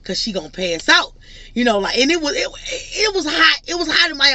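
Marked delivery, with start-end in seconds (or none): 0.0-1.1 a hint of a worried man cutting it short; quoting boyfriend. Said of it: "So he was like". 2.3-4.3 higher, cry-like exclamation about the heat; exclaiming. Real, not acted. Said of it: "vlogger stressing the heat".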